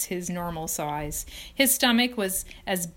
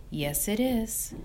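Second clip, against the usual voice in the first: sighed; 3 semitones higher, slower than usual. Acted. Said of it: "sighed Charlotte".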